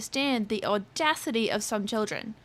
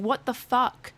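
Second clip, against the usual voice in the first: retold startled yell; slower than usual. Kid screams in her ear, she yells back, mild mock yell. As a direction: blurt it out as if startled. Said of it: "My automatic response was me yelling".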